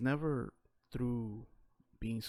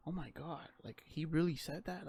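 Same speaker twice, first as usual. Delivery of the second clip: imitating shocked people, higher; mock shocked; 5 semitones higher than usual. Everybody hearing rough talk: mock scandalised higher. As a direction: play the scandalised bystander. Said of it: "everybody's like".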